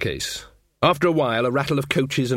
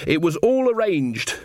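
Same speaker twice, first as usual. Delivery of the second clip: muffled; 7 semitones higher than usual. A narrator's reading. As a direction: voice muffled behind a door. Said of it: "the muffled voice behind the door".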